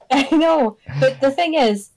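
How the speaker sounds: laughing while talking. Real, not acted. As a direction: laugh through it. Laughs at joke.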